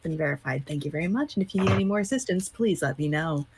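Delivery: polite scripted helpdesk read; cheerful call-center agent; customer service voice. Pretend. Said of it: "in my customer service voice".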